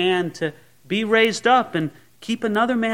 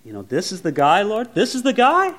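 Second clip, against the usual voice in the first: doubting disbelief; 3 semitones higher than usual. Acted. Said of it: "Samuel's trying to think".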